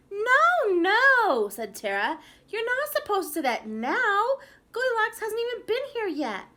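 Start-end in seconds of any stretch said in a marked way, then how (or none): 0.1-1.5 high, very loud protest; bossy yell. A narrator's reading. Tara stopping Albert's wrong line, high bossy yell. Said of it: "to be yelled at like that". 2.5-6.4 high, loud indignant correction; bossy scolding. A narrator's reading. Tara correcting Albert's pretend play, high loud scolding. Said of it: "to be yelled at like that".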